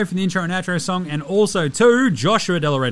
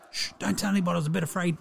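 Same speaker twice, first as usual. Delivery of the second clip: hushed confession; 2 semitones lower, 6 dB quieter, faster than usual. Acted. Confiding a secret to diary.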